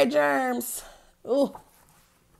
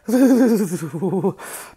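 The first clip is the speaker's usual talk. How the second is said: shivering; 4 semitones lower, 4 dB louder than usual. Shown as a demonstration. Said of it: "A shiver".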